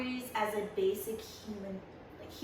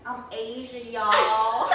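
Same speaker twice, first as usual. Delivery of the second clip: mock club intro; 6 dB louder, slower than usual. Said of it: "I'm gonna be like that".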